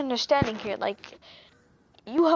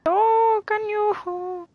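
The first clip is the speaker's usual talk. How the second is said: calling out; 9 semitones higher, 3 dB louder, much slower than usual. Pretend. Streamer calls after departing character.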